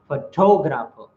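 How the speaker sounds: Photographer with the second syllable stressed; stress moved to TOG. Shown as a demonstration. Teacher showing how stress moves, TOG stressed in Photographer. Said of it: "the stress also moves".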